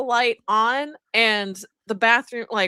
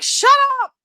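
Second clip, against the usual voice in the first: retold yell; 14 semitones higher, 7 dB louder than usual. Friend yells in dark bathroom.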